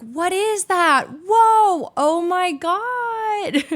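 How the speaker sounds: imitating the girls who stopped by to see the mole; Valley Girl imitation. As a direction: ham up a gushing Valley Girl, drawn out. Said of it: "I'm imitating all, like, the girls that were stopping by".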